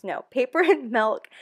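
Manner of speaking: laughing at own slip, "paper and milk" bright; laughing correction. Real, not acted. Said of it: "I almost said milk and cookies".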